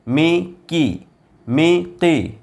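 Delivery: drawn-out blended syllables; slow it right down; slow syllable demo. Shown as a demonstration. Teacher sounding out zer syllables for students, slow. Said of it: "मीम ज़ेर मी".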